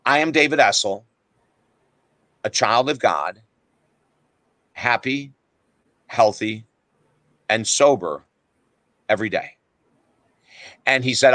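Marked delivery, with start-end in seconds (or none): 0.1-9.5 recited affirmation. Retold or imitated. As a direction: recite it piece by piece, measured and deliberate. Reciting his old affirmation to guru.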